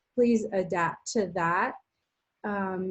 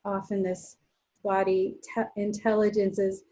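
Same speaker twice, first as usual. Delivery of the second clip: guided relaxation. Real, not acted. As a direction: ease them into rest with long pauses between phrases. Guides restorative rest practice.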